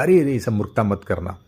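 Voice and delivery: urgent whisper; hushed warning. Acted. Villagers warn father in hushed whisper.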